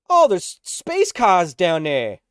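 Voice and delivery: loud, drawn-out cry of discovery; mock excited shout. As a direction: call it out slowly at full volume, hammed up. Mock sighting through a telescope.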